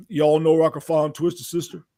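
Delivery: lightly imitated country-star greeting; hint of a famous singer's voice; a country singer. Musician retelling a backstage encounter, lightly imitating the singer. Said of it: "Sounds like a country singer".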